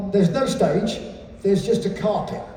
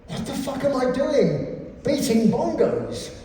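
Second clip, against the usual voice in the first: rising laughing outburst; mock revelation; 4 semitones higher than usual. Thinking about the band, a laughing mock epiphany. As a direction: realise it with a laughing shout. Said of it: "I suddenly went".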